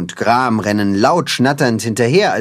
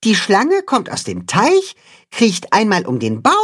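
Max demonstrating; 7 semitones higher than usual. Acted. Max shows knot.

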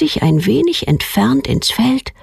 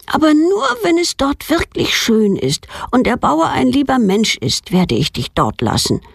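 a hint of a girl's earnest promise, higher; lightly voiced girl; 7 semitones higher than usual. Girl promises her fawn. (leicht angedeutetes Mädchen, ernstes Versprechen)

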